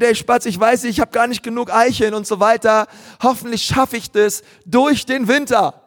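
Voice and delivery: a small animal sharing its worry; worried squirrel. Acted. Squirrel tells the sparrow it lacks acorns, lightly worried. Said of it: "Eichhörnchen erzählt".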